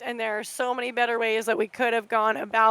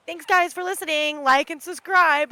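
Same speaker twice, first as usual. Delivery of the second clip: light, higher mock cheery outro voice; mock youtuber sign-off; 4 semitones higher than usual. Mocking a fake host thanking listeners, lightly higher. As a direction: parody a canned like-and-subscribe. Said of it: "this isn't me just being like".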